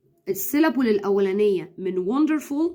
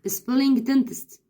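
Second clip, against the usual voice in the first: mock spelling; 3 semitones higher, much slower than usual. Shown as a demonstration. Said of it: "ممنوع يا مامي تيجي تقولي له سمع لي".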